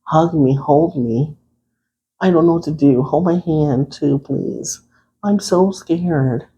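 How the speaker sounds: a hint of a scared partner; mild mock fear, clinging. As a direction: ham up being frightened to your date. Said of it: "You're gonna be like".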